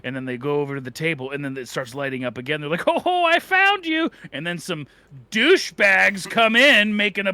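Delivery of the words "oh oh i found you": playful found you. Pretend. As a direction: sing it out like a game with a child. Ghost hunter playing hide and seek.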